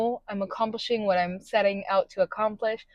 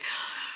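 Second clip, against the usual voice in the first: sad sigh; 14 dB quieter than usual. Retold or imitated. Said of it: "and I was just like".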